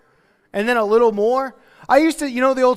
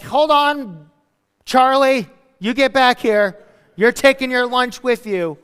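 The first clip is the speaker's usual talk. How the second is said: a lightly voiced mom calling her boy back, higher; mock motherly call, a bit louder; bossy mom; 4 semitones higher, 5 dB louder, slower than usual. A mother calling her son back for lunch, lightly mock stern.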